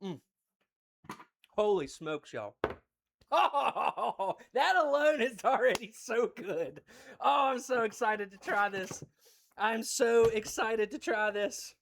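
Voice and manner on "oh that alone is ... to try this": excited. Real, not acted. Tasting the ice cream, delighted.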